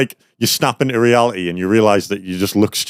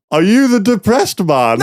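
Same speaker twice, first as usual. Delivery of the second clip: higher, slow, laughing; barely holding in laughter as he quotes her; laughing through the quote; 10 semitones higher than usual. Retold or imitated. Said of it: "the last answer says".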